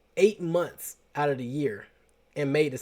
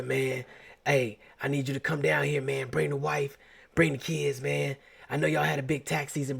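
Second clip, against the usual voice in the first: uncle's voice; 4 dB quieter than usual. Retold or imitated. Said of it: "I gotta do their voice".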